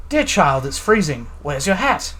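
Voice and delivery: light mock British accent, lightly done; a touch of British, fussy-parent tone; faintly British scolding of a kid. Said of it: "I had to say that in a British accent".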